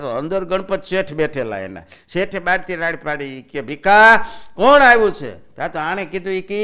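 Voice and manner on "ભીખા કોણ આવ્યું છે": loud, higher call from another room. Acted. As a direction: call out to the shop from inside. Boss calls out from inside.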